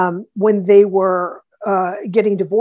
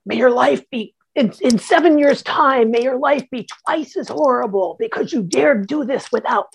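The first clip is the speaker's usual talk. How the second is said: mildly raised, imitated curse; mock outburst, slightly higher; retold angry scream; 4 semitones higher than usual. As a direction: retell an angry curse with a touch of heat. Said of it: "she screams something to the effect of".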